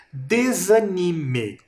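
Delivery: desanime read slowly and clearly; slow demo word. Shown as a demonstration. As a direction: stretch desanime for the class. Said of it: "E a terceira".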